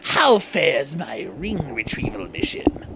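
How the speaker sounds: a purring villain voice. Acted. Eggman asking Boken about the rings, purring villain. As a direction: purr it like a tasty villain. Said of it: "he purred like a tasty villain".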